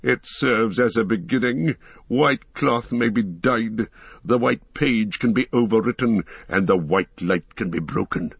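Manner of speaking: lightly voiced proud wizard, scornful; a hint of a cold, mocking wizard; haughty Saruman.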